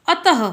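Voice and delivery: अतः as a-ta-ha; visarga sounded as ह. Shown as a demonstration. Teacher giving a second example, अतः with final ह sounded. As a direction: end अतः on an audible "ha". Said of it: "दूसरा example दिया गया है".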